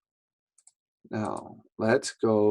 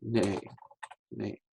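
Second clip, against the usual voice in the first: easy; 11 dB quieter than usual. Shown as a demonstration. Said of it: "We'll do it easy".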